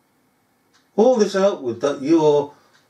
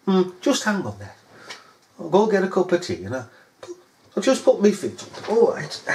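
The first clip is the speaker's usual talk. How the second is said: sarcastic; 3 semitones higher than usual. Retold or imitated. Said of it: "You're just mocking them".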